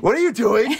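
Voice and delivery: high, loud, laughing incredulity; mock disbelief. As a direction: act out scandalized Pharisees through laughter. Voicing shocked Pharisees, laughing.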